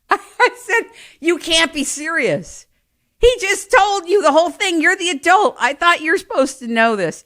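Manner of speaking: high, loud, incredulous protest; you can't be serious, pleading with a clueless mom; exasperated disbelief. Retold or imitated. Child to clueless mother on the way to a tournament, high, loud and incredulous.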